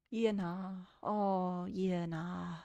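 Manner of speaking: broad New Zealand yeah-nah; laid-back, put-on Kiwi accent; thicker Kiwi accent. Shown as a demonstration. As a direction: lay on a casual Kiwi accent. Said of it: "make a Kiwi accent thicker".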